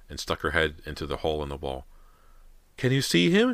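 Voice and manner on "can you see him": high, loud, anxious mother; mother calling out. A narrator's reading. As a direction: call across the room in a high voice. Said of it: "she heard her mother call".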